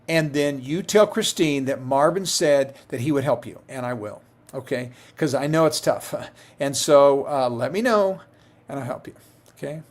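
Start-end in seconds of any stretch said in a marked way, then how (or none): 3.7-9.8 getting emotional. Real, not acted. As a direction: let the voice drop and catch as you promise. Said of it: "I'm getting emotional about that".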